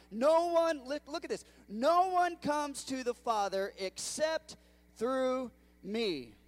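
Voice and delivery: high, loud, slow build on "no one"; preaching climax. Real, not acted. Pastor to the congregation, rising loud and slow. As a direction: soar up and slow on "no one comes to the Father".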